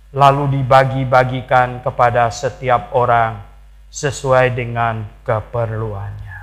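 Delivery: slow, deliberate verse reading; measured scripture reading. Acted. Preacher reads how believers shared proceeds, slow measured reading. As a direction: read it out slowly, phrase by phrase.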